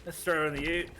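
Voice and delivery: put-on an American's passable Aussie accent; Australian accent. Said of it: "Why are you actually decent at it?".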